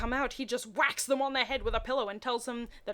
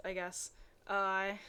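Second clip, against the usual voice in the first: ordinary delivery, nothing marked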